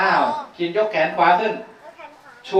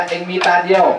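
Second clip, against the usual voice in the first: mocking taunt. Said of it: "ไอ้นี่มันล้อเลียนบอกว่า".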